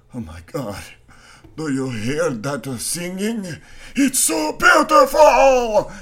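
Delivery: slow, spellbound build to a high wail; hammed-up rapture, ending in a loud, drawn-out cry; mock losing it. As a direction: act entranced, swelling into a shout. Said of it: "he starts just losing his shit".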